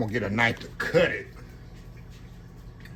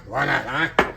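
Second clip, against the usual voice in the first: said again with more punch, rising; louder playful repeat; 4 dB louder, slower than usual. Real, not acted. Cook hyping his plate to viewers, louder playful repeat. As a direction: push it out a bit louder the second time.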